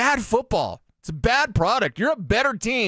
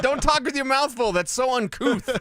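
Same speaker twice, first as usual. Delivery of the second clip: mock scolding parent; 6 semitones higher than usual.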